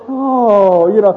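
mock "oh" of sympathy; sympathetic girls. Preacher imitating the girls' reaction, mock-sympathetic. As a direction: imitate an audience's pitying coo. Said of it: "You're all the girls".

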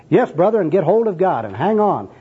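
high, fervent exhortation; zealous gospel encouragement; second gospel worker. Acted. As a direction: urge it on like an evangelist. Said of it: "this is the second personal worker".

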